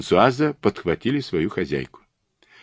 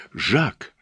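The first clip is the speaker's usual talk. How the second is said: gasped cry; 6 semitones higher than usual. Acted. Mother seeing her son between policemen, gasping cry. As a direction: call out to him, short of breath. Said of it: "задыхаясь, прокричала она".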